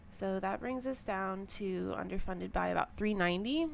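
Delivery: scratchy just-woke-up voice; a little scratchy, fresh out of bed. Real, not acted. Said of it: "sorry if my voice sounds, like, a little scratchy".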